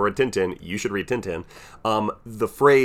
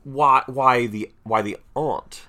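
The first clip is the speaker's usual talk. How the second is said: slow, drawn-out imitation of a British "aunt" with a broad ah; lightly put-on British accent, teasing a co-host; mock British accent; 3 semitones higher, much slower than usual. Co-host slowly mimics partner's British accent, teasing. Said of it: "please don't impersonate my accent".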